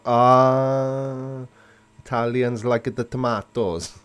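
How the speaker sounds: a hammed-up Italian accent that slips into Cardiff; Welsh-Italian accent. Answering an Italian viewer in a mock Italian accent. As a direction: put on a bad Italian accent, half Welsh. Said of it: "Sounded a cross between Cardiff and Sicily".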